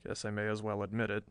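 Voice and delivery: low, soft, rueful confession; wry admission. A narrator's reading. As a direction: admit it quietly with a wry smile. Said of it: "he said with a wry smile".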